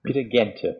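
Peter Gente with a hard G; correct German pronunciation. Shown as a demonstration. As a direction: correct the name: Gente, hard G, two syllables. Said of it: "hoping I'm pronouncing his name right".

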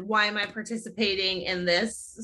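flat, unimpressed deadpan; Cece deadpan monotone. Retold or imitated. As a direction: say it bored and flat. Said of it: "monotone, deadpan".

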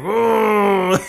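high, loud surprised monster grunt. Retold or imitated. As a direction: react like a cartoon villain. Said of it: "He just like".

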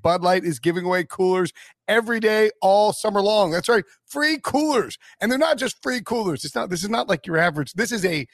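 upbeat sponsor ad read. Acted. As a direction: sell it like a radio spot. Sponsor ad read mid-podcast.

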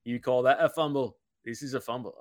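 mock Australian sliding into British; hint of a badly faked Australian accent; botched Australian accent. Color commentator joking about the Australian player, botched Australian accent. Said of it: "I was trying to go Australian there, Zach, but I slipped into British".

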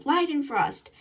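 high-pitched mock yell, held in volume; retold yell. Captain curses as torpedo nears, mild retold yell. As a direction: imitate a captain's startled oath. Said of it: "Anna starts to yell".

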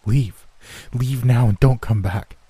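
muffled scream through a gag; through a wall. Acted. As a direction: yell it muffled, as if gagged. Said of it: "his voice muffled".

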